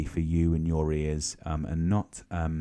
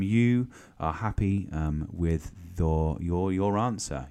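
slow and drawn out; slower than usual. Shown as a demonstration. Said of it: "You are happy with your answer".

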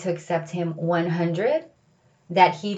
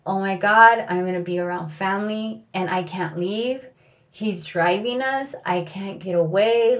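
panicked. Retold or imitated. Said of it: "freaking out".

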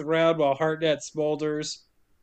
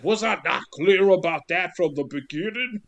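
exasperated prisoner. Retold or imitated.

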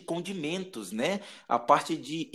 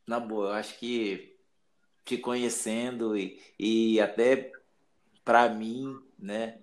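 moved, holding back tears; 6 semitones lower than usual. Real, not acted. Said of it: "você sabe que eu sou chorão pra caralho".

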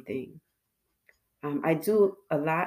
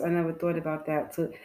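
talking through a face mask; muffled behind a mask. Real, not acted. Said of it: "I sound a little muffled from time to time".

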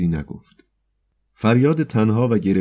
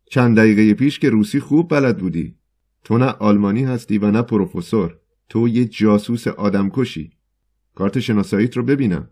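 louder, higher accusing shout; 3 semitones higher, 4 dB louder than usual. Acted. Poet yells at the foreigner calling him a spy, loud. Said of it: "و فریاد زد".

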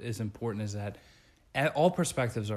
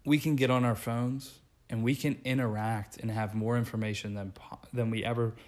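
holding back hiccups mid-sentence; fighting off the hiccups; suppressing hiccups. Real, not acted. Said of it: "Are you okay?".

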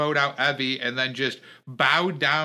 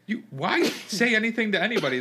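laughs mid-line, pitch jumps up; exasperated laugh at the absurdity; half-laughing, half-exasperated outburst; laughing disbelief; 7 semitones higher, faster than usual. Real, not acted. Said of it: "This is absolutely ridiculous".

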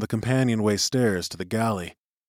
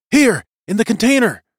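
high, loud call from a box; shrill voice; 11 semitones higher, 7 dB louder than usual. A narrator's reading. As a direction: pipe up to be found. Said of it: "he heard in a shrill voice".

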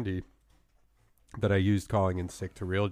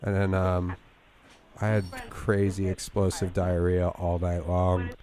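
fake sick voice. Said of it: "my fake sick voice".

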